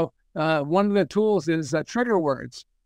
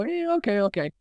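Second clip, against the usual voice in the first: 1 dismissive okay; 5 semitones higher than usual. Retold or imitated. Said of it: "people go".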